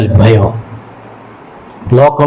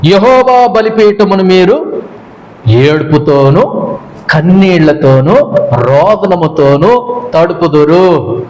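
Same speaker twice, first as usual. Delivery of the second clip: slow, drawn-out solemn reading of the verse; scripture reading; 2 semitones higher, slower than usual. Acted. Preacher reading the prophet's words to the congregation, slow and solemn. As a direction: read the verse slowly, weighing each phrase.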